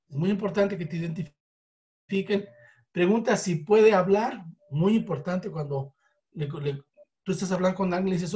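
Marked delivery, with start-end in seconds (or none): none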